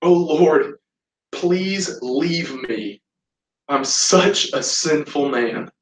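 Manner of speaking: slow, drawn-out plea; retold anguished plea. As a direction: draw out each phrase of the plea. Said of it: "Simon listens to his heart again".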